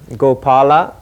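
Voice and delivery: one word at a time, chanted; staccato. Shown as a demonstration. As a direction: call each name separately. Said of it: "One sound at a time".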